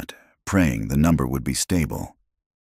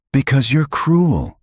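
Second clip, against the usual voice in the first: slow, raw, pitched-up outburst; exploding in anguish; 10 semitones higher, 4 dB louder, slower than usual. A narrator's reading. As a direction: let the hurt burst out in anger. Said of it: "he finally exploded".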